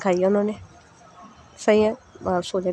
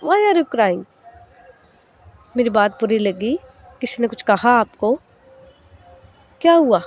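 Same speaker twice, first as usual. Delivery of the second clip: put-on caring older sister. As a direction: gently press a crying girl to talk. Sahar wipes tears, asks.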